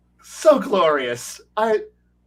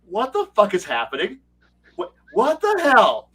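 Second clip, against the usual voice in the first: baffled villain; 5 semitones higher than usual. Retold or imitated.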